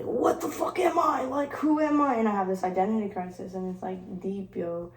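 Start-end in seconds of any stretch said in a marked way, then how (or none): 0.0-2.1 confused self. Retold or imitated. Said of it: "it leaves me here like".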